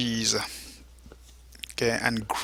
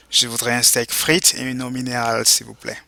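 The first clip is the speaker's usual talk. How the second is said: model phrase for repeating. Shown as a demonstration. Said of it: "go ahead and repeat".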